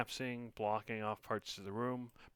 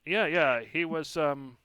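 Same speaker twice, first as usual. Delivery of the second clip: tiny musing voice; 3 semitones higher, 4 dB louder than usual. Acted. Lily spirit voice, musing.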